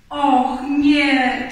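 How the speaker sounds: loud, startled exclamation; dismayed cry. A narrator's reading. Rabbit sees Pooh knock the watering can, crying out. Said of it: "krzyknął królik".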